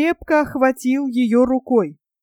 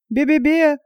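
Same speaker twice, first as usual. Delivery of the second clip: stammering бе-бе-бе in fright; terrified bleating; 4 semitones higher than usual. Acted. Panurge bleats in fear at the friar's scolding. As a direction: bleat the бе-бе-бе in panic. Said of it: "отвечал Панурк".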